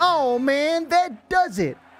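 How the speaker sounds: strong New York accent. A player reacting during a game, in an incredibly strong New York accent. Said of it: "In an incredibly strong New York accent".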